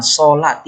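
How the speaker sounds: sholat with a held final t; mock the misspelled sholat; read-out pronunciation. Shown as a demonstration. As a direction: say sholat slowly, stretching the t. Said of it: "Ini sholat bacanya".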